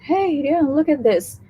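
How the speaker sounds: a lightly put-on Australian greeting; excited Australian friend showing off a bandana; Australian accent. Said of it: "the combination between the black people accent and then the British".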